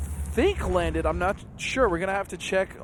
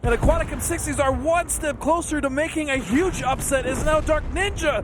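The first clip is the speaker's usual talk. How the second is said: building excitement; 5 semitones higher than usual. Real, not acted. Caster calls a big play.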